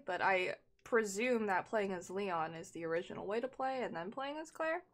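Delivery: talking while crunching crackers; chewing a cracker mid-sentence. Real, not acted. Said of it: "Sorry for the crunching A S M R too".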